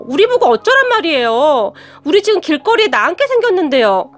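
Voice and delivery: 조금 높고 세게 쏘아붙이는 짜증; 시아버지에게 대드는 투덜거림; 짜증 난 목소리. Retold or imitated. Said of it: "짜증난다는 목소리로". (시아버지에게 대드는 형님, 조금 높고 센 짜증 섞인 목소리)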